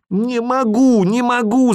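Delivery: high loud desperate cry; desperate shout. A narrator's reading. Boy cries out in despair, plugging his ears, loud high cry. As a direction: scream it in despair. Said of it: "закричал я отчаянно".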